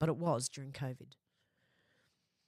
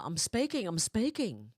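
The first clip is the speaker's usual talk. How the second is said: mock politician insisting on the floor, pitched up at first; Kamala; 2 semitones higher, 4 dB louder than usual. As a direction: lightly mimic a politician cutting in. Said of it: "Albo's doing a Kamala".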